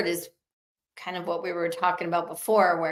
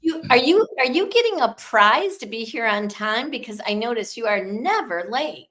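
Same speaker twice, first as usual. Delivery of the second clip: higher, louder mock-sweet jab that settles down; sarcastic backhanded compliment; 4 semitones higher, 3 dB louder than usual. Cohost imitating a snide remark about punctuality, sarcastic. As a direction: needle them with fake praise. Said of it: "it's a backhanded compliment".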